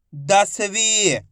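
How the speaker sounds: दसवीं very slowly sounded out; drawn-out long ई. Shown as a demonstration. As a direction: stretch the final वीं of दसवीं. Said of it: "खींच के पढ़ा जाता है".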